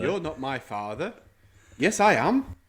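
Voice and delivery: generic Welsh accent attempt. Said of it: "just sounds like a generic accent".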